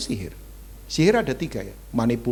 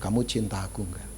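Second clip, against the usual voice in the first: coaxing wife; 4 semitones lower, 7 dB quieter than usual. Retold or imitated. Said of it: "Isabel berkata".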